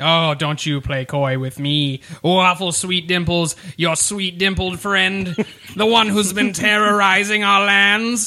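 accusing talking celery stalk character voice. A large celery stalk asks someone about their friend Waffle Sweet Dimples, talking celery stalk voice. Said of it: "It is a large stalk of celery carrying a small parchment, / It is a large stalk of celery carrying a small parchment, who then reads from that parchment. / and standing before you is one of the people".

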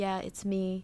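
put-on muffled voice. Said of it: "He adopted a muffled voice and then said".

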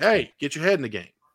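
plain

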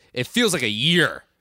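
put-on sharp, cross, irritated angry voice. Acting out Vanessa's follow-up line about Nick, mock-angry Vanessa impression. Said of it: "Angry voice".

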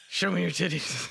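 rough, domineering growled delivery. Imitating how some guys would say their texts: imitating a dominant growl. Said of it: "They growl dominantly".

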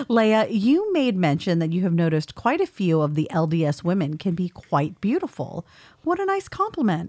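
ordinary delivery

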